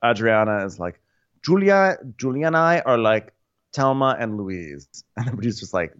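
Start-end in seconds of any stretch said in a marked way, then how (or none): 1.4-4.9 mock gushing. Quoting Adriana.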